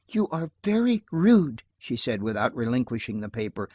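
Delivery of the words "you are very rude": higher indignant rebuke; offended. A narrator's reading. Offended girl rebuking him.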